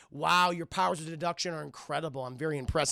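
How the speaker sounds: dry, understated mock admiration; sarcastic. Hans humouring a cocky hostage, drily sarcastic. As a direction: feign being impressed, lightly. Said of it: "He's being so sarcastic".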